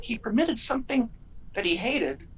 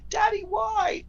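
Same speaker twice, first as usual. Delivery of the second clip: put-on a child's high shout, much higher and louder; screaming child; 13 semitones higher, 5 dB louder, slower than usual. Injured boy screams to his daddy, high and loud. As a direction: cry out like a hurt little boy. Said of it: "and he's screaming".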